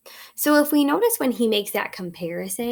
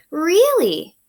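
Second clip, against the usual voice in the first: surprised dad; 7 semitones higher, 6 dB louder than usual. Acted. Dad surprised at jumping plan.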